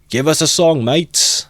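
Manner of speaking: loud, high festive call; rowdy shout. Acted. Drunk in the cart calling for a song, rowdy shout. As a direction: whoop for a song. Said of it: "shouted someone in the cart".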